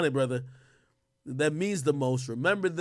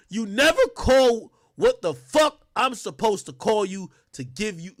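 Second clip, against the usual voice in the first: loud, higher, indignant reading; mock angry father; angry text read; 4 semitones higher, 6 dB louder than usual. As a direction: read it like the furious dad.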